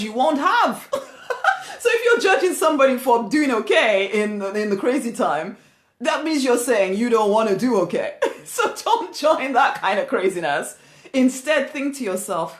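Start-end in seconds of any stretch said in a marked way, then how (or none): 0.0-10.8 amused, laughing delivery; light laughing aside. Real, not acted. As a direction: chuckle through the point. Laughs at own point.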